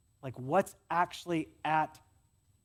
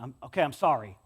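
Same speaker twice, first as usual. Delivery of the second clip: grudging sorry; 5 semitones lower, 4 dB louder than usual. Retold or imitated. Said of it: "one of those apologies".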